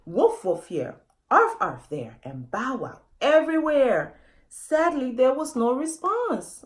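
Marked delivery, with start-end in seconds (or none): 0.1-4.2 mild, louder barking calls; lightly voiced animal barks; a family barking to search. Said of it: "Wolfen family barking".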